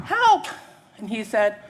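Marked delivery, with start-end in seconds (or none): 0.1-0.5 high, loud cry for help; shouting. Acted. Woman in raft to someone far ahead, shouting for help. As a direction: yell it across the water. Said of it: "have a conversation shouting".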